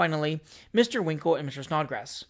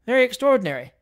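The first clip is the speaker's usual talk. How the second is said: exclaimed; 7 semitones higher, 6 dB louder, faster than usual. A narrator's reading. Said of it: "exclaimed the officer".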